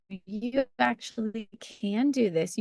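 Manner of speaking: slow, drawn-out encouragement; reassuring affirmation. Acted. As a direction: reassure a labouring mother, stretching the words. Voicing a birth partner's affirmation.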